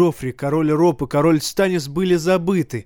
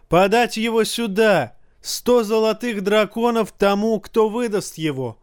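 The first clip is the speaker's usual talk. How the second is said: high, angry orders; angry command; 7 semitones higher than usual. A narrator's reading. Joffrey orders the culprit brought to him, high and angry. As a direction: bark orders in fury. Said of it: "заорал Джофри".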